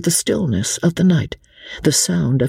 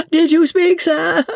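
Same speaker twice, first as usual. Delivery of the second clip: much higher, louder foppish question; high innocent dandy query after a giggle; inane fop; 3 dB louder than usual. Acted. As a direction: chirp it like a silly dandy. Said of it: "turned with an inane laugh".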